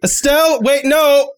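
alarmed call. Acted. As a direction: call after someone running off. Calling after a departing character.

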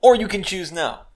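loud, slow and high; slow mock booming. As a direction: boom it out teasingly. Teasing interruption joke.

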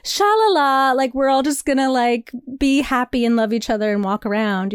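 airy sing-song mockery of a carefree protest; lightly mock the happy-go-lucky crowd, la la la. Mocking her own naive idea of a happy protest, airy sing-song. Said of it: "you're just like".

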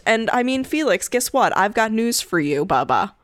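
high-pitched voice for the cat; teasing the cat in a high voice; pet talk. Acted. Talking to the cat.

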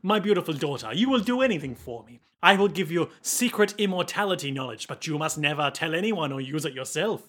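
storytelling father in put-on French accent; Huey's French accent. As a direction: reminisce formally with a mock French accent. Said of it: "speaking with a French accent this whole time".

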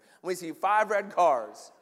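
slow, lightly Southern drawl; Southern accent. Acted. Preacher replaying a prayer for five red cars, Southern accent. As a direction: put on a mild Southern accent, stretched out. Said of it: "why I'm going Southern accent here".

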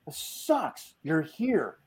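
whiny complaint. Retold or imitated. Husband stuck with wife's work dinner, whiny complaint.

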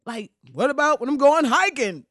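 hushed, slow pleading staffer; lightly voiced aide begging him; Obama's aides pleading. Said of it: "they was like".

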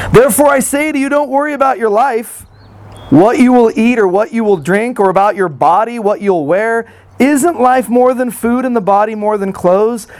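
measured, solemn Bible reading; scripture reading. Acted. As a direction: read the passage with weight. Scripture reading within sermon.

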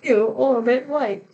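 slow, hammed-up French accent on a commercial line; a deliberately terrible French accent, drawn out; bad French accent. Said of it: "I apologize for that terrible accent".

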